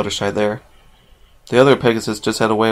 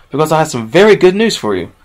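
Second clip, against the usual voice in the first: kind, higher and louder greeting; Sky Blue greeting Rainbow kindly, a bit raised; 5 semitones higher, 5 dB louder than usual. Acted. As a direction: speak kindly with good news. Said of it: "Sky Blue said kindly".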